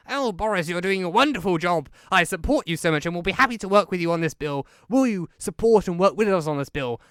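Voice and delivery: sarcastic sycophant; mock fawning Keir. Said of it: "almost Keir saying".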